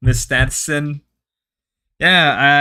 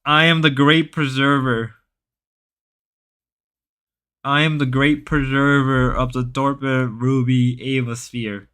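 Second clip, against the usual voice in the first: grand proclamation. Pretend.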